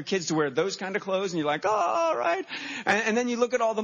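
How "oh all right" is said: grudging resignation. Retold or imitated. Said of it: "you're frustrated".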